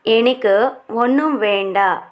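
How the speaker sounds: slow, clear teacher repeat of ఎనకు ఒన్నుం వేండ; slow model repeat. Shown as a demonstration. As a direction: say it slowly so learners can follow. (నెమ్మదిగా, స్పష్టంగా మళ్ళీ చెప్పడం)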